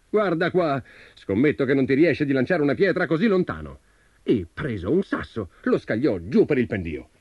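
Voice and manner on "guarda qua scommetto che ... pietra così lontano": high-pitched, boastful giant voice; challenging giant. A narrator's reading. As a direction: dare him like a showing-off giant. Giant challenges tailor to throw farther.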